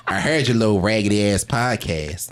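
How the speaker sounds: lightly voiced mother from a dream. Dead mother teases him in a dream, lightly voiced. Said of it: "coming to me in a dream".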